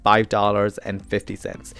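a light put-on American accent on the price; playful American accent. Host teasing listeners with a mock American accent. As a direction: say it like an American, just for fun. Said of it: "as I love saying it in this accent".

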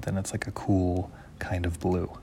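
whispered, unvoiced demo; really quiet. Shown as a demonstration. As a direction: drop to a whisper to show quiet. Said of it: "And if I'm really quiet".

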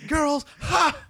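put-on high creepy "Girls, ha!"; creepy laughing sheriff. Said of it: "One of my favorite parts".

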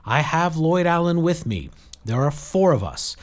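high, projected, pressing explanation; urgent appeal. A narrator's reading. Jill telling Saradwan they are being hunted, urgent. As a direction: press the case loudly into the radio. Pleading for help over the radio.

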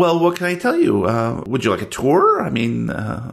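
chirpy office clerk. Acted. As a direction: play the fussy storage clerk, all smiles.

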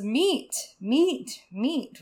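lightly voiced bird repeating one word; half-hearted raven. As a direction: read the raven without committing to the voice. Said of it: "That's not a Raven voice".

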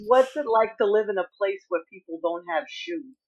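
a hint of a New York accent, lightly voiced; a lightly done New York accent. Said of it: "in a New York accent".

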